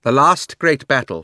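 loud, high, imperious queen voice; haughty queen's loud grievance; proud queen. A narrator's reading. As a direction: rant like a wronged tyrant queen.

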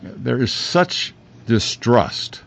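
words muffled by a mask; speaking through a face mask. Real, not acted. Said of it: "Hard to say through a mask".

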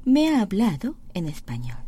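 very slow, word by word; slow demo. Shown as a demonstration. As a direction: spell it out slowly for learners.

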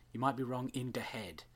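a hint of bad stage Irish; terrible Irish accent. Host reluctantly mimicking the redhead's line, mild mock Irish accent. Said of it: "the way she says it".

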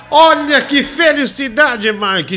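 laughing, then bursts out high and loud; big hype burst for the guest; excited. Real, not acted.

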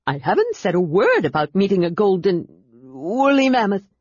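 thrilled to help; excited kender voice. A narrator's reading. Tass reply.

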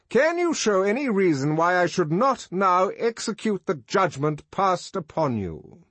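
high, ringing judicial challenge; impressive address. A narrator's reading. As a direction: pronounce it grandly before passing sentence. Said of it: "he turned impressively to Bernard".

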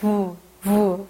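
우 said as a buzzing "vu"; English V sound. Shown as a demonstration. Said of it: "윗니를 아랫입술에 살짝 댔다가 떼는 발음".

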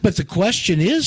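a hint of a high girlish voice; Alice. A narrator's reading. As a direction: lift the pitch into a questioning protest. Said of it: "said Alice".

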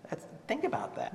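whispered, intimate urging. Real, not acted. Preacher urges the congregation to reflect, whispering. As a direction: drop to a whisper to make them think.

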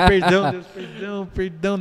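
urgent repeated cry for pardon, acted out; desperate pleading. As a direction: imitate begging God for forgiveness in a panic. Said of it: "no desespero".

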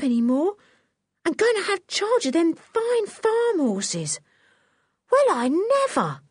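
put-on high, excited cockney circus boy; a lad who can't believe his luck; startled Nobby. Nobby marvels to himself.

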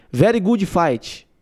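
put-on slow English in thick Brazilian accent; Amanda Nunes. Fighter on her fight, thick slow Brazilian accent. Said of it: "inglês muito puxado".

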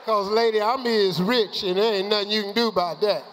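loud triumphant punchline. Real, not acted. Telling the grammar coach off, loud defiance. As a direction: land it loud and proud.

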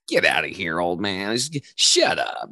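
imitating a scoffing son; dismissive teen. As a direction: wave the old man away, mockingly. Son brushes off dad's advice.

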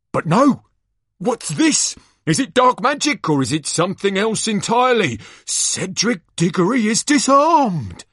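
high, loud arena commentary; gasping showman's disbelief for the crowd; astonished live commentator. Acted. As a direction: call the shock twist at full excitement. Announcer reacts to disarming.

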